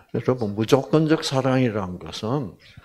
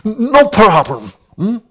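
reassuring; 7 semitones higher, 7 dB louder, much slower than usual. Retold or imitated. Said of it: "제가 뭐라 그랬게?".

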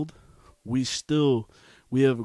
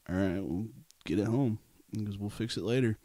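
calm dad; 4 semitones lower, 6 dB quieter than usual. Retold or imitated. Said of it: "same tone, just as calm".

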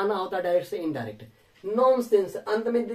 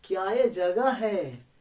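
slow amazed exclamation; much slower than usual. Shown as a demonstration. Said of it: "बिल्कुल आश्चर्यचकित रह गए".

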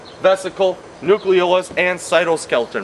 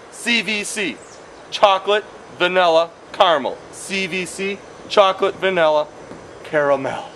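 drill for repeating; 2 semitones higher than usual. Shown as a demonstration. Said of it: "Please repeat after me".

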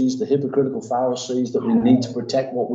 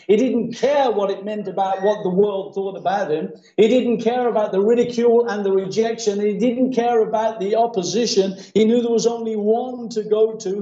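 raised, driving sermon delivery; impassioned preaching; 8 semitones higher than usual. Real, not acted. Preacher recounting a blind man's resolve, impassioned. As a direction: preach it with insistent, repeated emphasis.

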